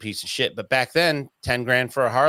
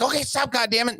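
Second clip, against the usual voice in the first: high, exasperated okay stop; a frustrated father snapping; dad cursing while lifting the bike, exasperated; 11 semitones higher than usual. Retold or imitated.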